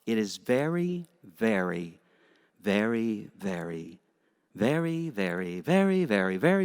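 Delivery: a hint of a friend's emphatic repeated very; Joe Ali's way. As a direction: stretch out each very as if building to a big point. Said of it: "let me say this in the way that Joe Ali would say it".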